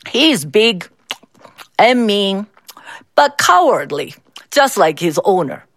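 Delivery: words around a mouthful; chewing food. Acted. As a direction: mouth full while talking. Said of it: "Mister Lee said, chewing his food".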